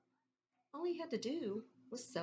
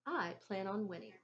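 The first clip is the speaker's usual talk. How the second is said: mouth full. Acted. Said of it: "with a mouthful of dill pickle chips".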